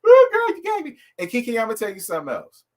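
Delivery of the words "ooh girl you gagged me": much higher and louder, a thrilled squeal; delighted shriek. Real, not acted. Host squeals at the guest, thrilled and shocked.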